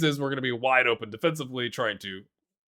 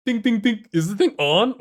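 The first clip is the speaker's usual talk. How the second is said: sarcastic; 7 semitones higher, 7 dB louder than usual. Pretend. Mock tapping microphone.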